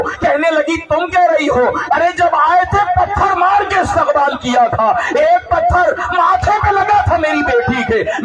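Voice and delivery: high grieving speech; mother's wailing reproach; keening lament. Acted. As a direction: pour out the mother's grief.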